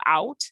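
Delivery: "out" held long with an open mouth; long vowel. Shown as a demonstration. Teacher showing the mouth opening up, "out" drawn out. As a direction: open up and stretch "out". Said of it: "make the sound long".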